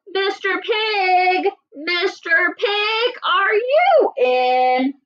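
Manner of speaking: slow, high, sing-song call. Acted. Wolf calls to the stick-house pig, sing-song. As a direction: croon it through the door. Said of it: "I called".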